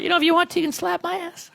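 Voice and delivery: put-on high, breathy-light girlish voice; girly voice. One-night stand partner, coy girlish high voice. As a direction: squeak it out like a coy little girl. Girl's high voice in bed story.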